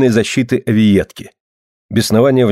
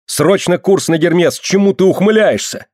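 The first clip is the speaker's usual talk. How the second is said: much higher, urgent yelling; urgent shout; 8 semitones higher than usual. Acted. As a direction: bark orders in alarm. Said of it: "закричал Аркадий".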